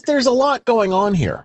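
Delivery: wry exclamation. Acted. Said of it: "repeats it".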